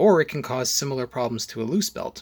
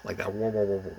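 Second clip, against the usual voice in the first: into a fan; 3 semitones lower, faster than usual. Retold or imitated. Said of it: "talking into a fan".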